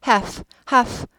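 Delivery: half said hahf, no L sound; silent l in half. Shown as a demonstration. Teacher repeating the word for students, careful demo. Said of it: "L이 묵음이죠".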